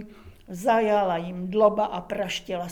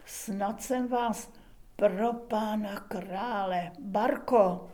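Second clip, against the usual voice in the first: slow, frightened murmur; slower than usual. Acted. Kubát fears he killed her.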